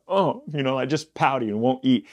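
whiny sulking voice, a high "Oh" at the start; pouty crybaby king. Retold or imitated. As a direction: pout the words like a sulking child. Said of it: "He's a crybaby, he pouts".

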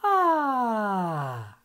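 a long falling chest-voice "Ah"; demo vocal sigh. Shown as a demonstration. Teacher demonstrates with a hand on the chest. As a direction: glide it down slowly and settle. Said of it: "faz esse som".

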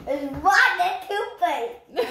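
laughing. Real, not acted. Eating gross jelly bean, laughing.

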